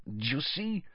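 put-on high, slow, urgent accented voice; Karkaroff, agitated. A narrator's reading. Karkaroff showing Snape his forearm, agitated. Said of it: "in an agitated voice".

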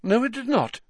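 high, indignant professor voice; Trelawney. Acted.

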